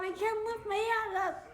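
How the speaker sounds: half-crying, loud and groggy; crying out in drugged distress. Real, not acted. Groggy patient after anesthesia.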